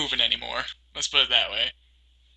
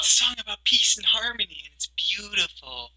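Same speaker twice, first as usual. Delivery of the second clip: sarcastic; 6 semitones higher than usual. Acted. Mocking partner's praise of a band.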